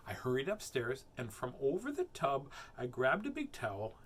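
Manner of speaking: put-on measured, animated children's storytelling; expressive storybook narration, stressing key words; story reading. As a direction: read it to kids with lively swings. Reads a rhyming story aloud.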